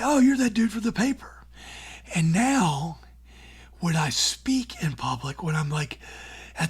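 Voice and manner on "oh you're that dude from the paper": high, loud excited recognition; a stranger on the street lighting up; recognizing him. Retold or imitated. Passerby on the street recognizing the columnist, high excited call. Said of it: "come up to me on the street and say".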